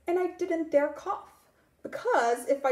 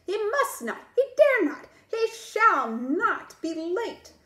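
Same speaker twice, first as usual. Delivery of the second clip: yelling; 5 semitones higher than usual. Acted. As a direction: shout it like a furious worm. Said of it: "he was yelling".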